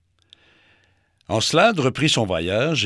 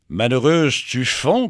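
loud, high alarmed cry; 3 semitones higher, 6 dB louder than usual. Acted. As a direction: call out in alarm that she melts. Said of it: "cria Mercure".

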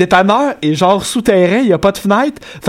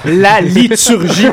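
mock solemn; 2 semitones higher, 3 dB louder, much slower than usual.

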